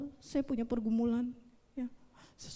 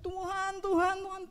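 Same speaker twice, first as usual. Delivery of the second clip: imitated tearful pleading; 8 semitones higher than usual. Preacher re-enacting his crying prayer at midnight, tearfully pleading. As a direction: plead as if weeping, pitched high. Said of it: "sudah nangis, sudah mewek".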